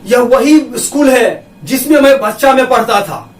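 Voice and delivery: वही pressed firmly, the rest even; stress on वही. Shown as a demonstration. Teacher shows students how वही is stressed. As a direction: lean hard on वही. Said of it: "तो यहाँ पर जोर दे करके बोला जा रहा है ना".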